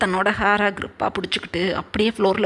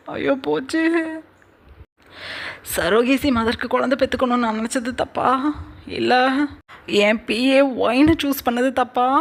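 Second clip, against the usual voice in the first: pitched-up wailing to himself; anguished inner lament; 4 semitones higher than usual. Acted. A singer talking to himself, anguished then resolved. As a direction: despair turning to resolve. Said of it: "ஒரு பாடகர் தனக்கு தானே நினச்சிக்கிட்டு".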